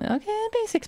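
a sudden squeaky falsetto "basics"; high squeak. Real, not acted. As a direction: squeal the word in a silly high voice. Squeaks while picking a canvas.

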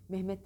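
Mehmet with the H dropped, "Memet"; wrong pronunciation. Shown as a demonstration. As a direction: show the faulty "Memet". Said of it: "Mehmet demeyin".

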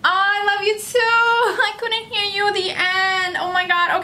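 gushing delight. Real, not acted. Gushing back at a fan's message.

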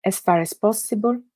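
unhurried instructions with long pauses; guided meditation. Acted. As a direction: guide them phrase by phrase into stillness. Guides a Yoga Nidra meditation.

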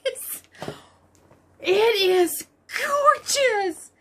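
drawn-out, high squeal of delight; high excited gush. Real, not acted. Vlogger seeing her new yarn, high excited gush. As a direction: stretch each word in awe, pitched high. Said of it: "My voice goes really high when I'm excited".

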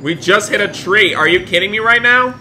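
high-pitched, exasperated disbelief; shocked outburst. Pretend. Dad has just hit a tree, shocked outburst. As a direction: exclaim in play shock.

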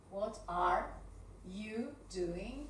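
"What are... you doing" with pauses; measured dictation with gaps between words; word-by-word question. Shown as a demonstration. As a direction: break the question into separate pieces. Same question broken down word by word.

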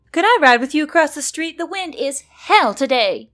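high, loud little fairy voice; tiny sprite voice. Acted.

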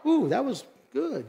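high, pleased "Ooh"; impressed praise. Real, not acted. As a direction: reward the crowd with delight. Praising congregation's response.

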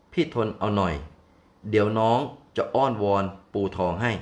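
a gentle wife calming her mate; comforting wife. Acted. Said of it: "นางช้างผู้เป็นเมียจะพูดว่ายังไง". (นางช้างปลอบผัวด้วยเสียงอ่อนโยน)

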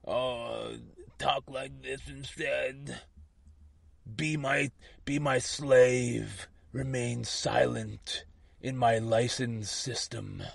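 soft, sneering mock voice of a petty boss; mocking slave driver. Mocking a slave driver's petty comment in a soft sneer. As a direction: murmur the bossy order like a smug master mocking you. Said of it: "some slave driver makes a petty little dumb comment".

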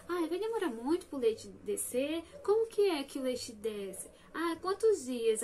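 mock-anxious new mom texting her sister. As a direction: fret at your sister, impatient for news. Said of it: "Eu ficava muito ansiosa".

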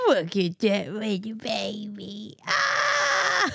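coo, then scream with delight; gushing squeal. Real, not acted. Gushing over the baby photo.

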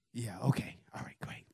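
soft, fading mock agreement; sarcastic disbelief. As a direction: brush it off, unconvinced. Coworkers disbelieve him.

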